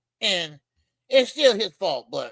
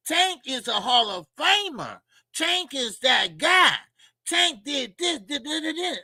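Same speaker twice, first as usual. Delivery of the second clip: mock Tim Bradley; 6 semitones higher than usual. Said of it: "Tim Bradley came out and said".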